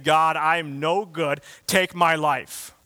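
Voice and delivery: mock despair. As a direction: throw the prophet's complaint out loud in disbelief. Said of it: "you're running for your life saying".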